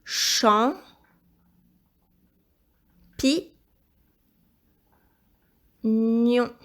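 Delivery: isolated syllables with long pauses; syllable-by-syllable dictation. Shown as a demonstration. Teacher helping pupil spell champignon, syllable-by-syllable dictation. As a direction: break "Champ. Pi. Nion." into separate, measured beats.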